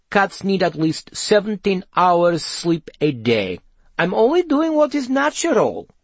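high-pitched talking cat; Nightshade. A narrator's reading. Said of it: "said Nightshade".

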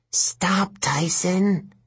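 urgent, high stage whisper. A narrator's reading. Grover pulling Tyson back from danger, urgent whisper. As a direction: hold him back with a whisper. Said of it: "he whispered".

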